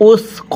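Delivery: উসক said softly with a soft সা. Shown as a demonstration. A teacher shows students the soft সা, soft and quiet. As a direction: soften the সা in উসক, not শিন. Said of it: "এটাকে সা নরম করে উচ্চারণ করব।".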